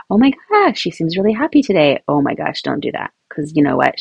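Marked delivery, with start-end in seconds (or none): 0.1-2.0 mock over-excited mom; gushing mom.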